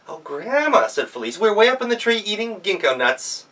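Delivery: put-on high, loud child's voice; sweetly scheme like a child; girl tricking the wolf with a request; clever girl. Girl answering from the tree.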